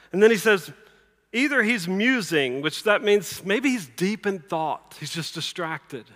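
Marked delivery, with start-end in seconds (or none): 1.3-2.6 higher, slow taunt; mocking. Elijah teasing Baal's prophets about their silent god, mocking. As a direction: muse aloud in a drawn-out tease. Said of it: "Elijah mocked them".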